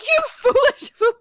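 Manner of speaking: stern prosecutor. Retold or imitated. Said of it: "She's gonna be like".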